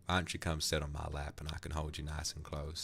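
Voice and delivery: tender, reassuring cowboy murmur; cowboy aftercare. Acted. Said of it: "Aftercare with the cowboy".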